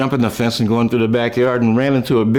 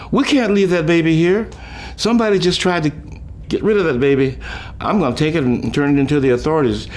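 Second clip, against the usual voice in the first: urgent mom; 6 semitones higher than usual. Retold or imitated. Mom insisting on saving baby.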